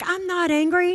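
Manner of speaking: mock indignant protest, pitched high; defensive anger. Daughter denies it to her mother, mock indignant. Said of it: "why are you so angry".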